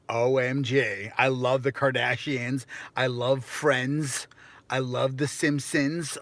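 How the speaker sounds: slow, lightly gushing valley voice; mock stereotypical American. Mocking how locals picture Americans, lightly gushing and slow. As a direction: play the clichéd American fan. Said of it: "is that an American accent".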